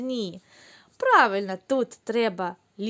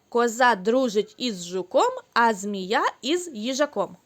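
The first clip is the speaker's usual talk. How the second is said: Коза дружить із жуком said at a quicker pace; faster tongue twister. Shown as a demonstration. Teacher repeats the tongue twister with children, faster. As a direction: pick up speed through the twister. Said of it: "А тепер швидше".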